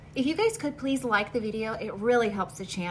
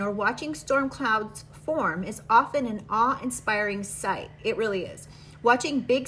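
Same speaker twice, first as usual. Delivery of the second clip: measured, even reading-aloud voice. Acted. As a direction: read the guidebook text to viewers. Reads card book aloud.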